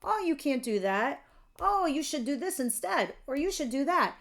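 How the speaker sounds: a hint of nagging doubters; naysayers. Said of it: "here's all your naysayers".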